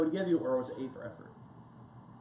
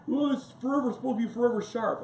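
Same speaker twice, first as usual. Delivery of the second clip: clueless excuse; 6 semitones higher, 3 dB louder than usual. Retold or imitated. Clueless knife owner answering.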